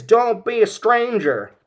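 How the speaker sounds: high, loud call from the back; father calling to his son from across the room, high and loud; Pa Kent shouting. Retold or imitated. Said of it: "Pa says".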